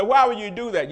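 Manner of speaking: loud, challenging "Why would you do that?"; a loud, rhetorical "Why would you do that?"; mock critics' question. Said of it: "some people say".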